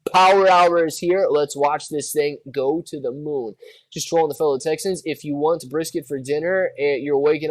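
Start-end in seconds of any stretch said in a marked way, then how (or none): 0.1-1.3 announcer hype. Acted. Stock stream hype call.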